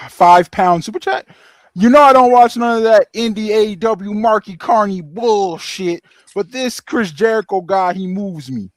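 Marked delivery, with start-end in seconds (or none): 1.7-8.7 lightly put-on southern accent; slow southern accent for a fan message. Co-host reads a viewer's chat aloud, in a southern accent. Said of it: "giving you a southern accent".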